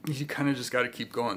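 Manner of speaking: speaking through a burp; a burp catching the words. Real, not acted. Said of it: "Excuse me, I'm burping".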